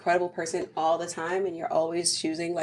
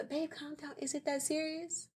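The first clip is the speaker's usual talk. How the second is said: mock dismissive husband; 7 semitones higher, 14 dB quieter than usual. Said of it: "you hit me with the".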